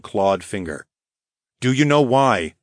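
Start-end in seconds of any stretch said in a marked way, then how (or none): 1.6-2.6 mild demand, pitched up. A narrator's reading. Hero questioning the lynx, mildly demanding. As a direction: press for an answer, a touch higher. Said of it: "I demanded".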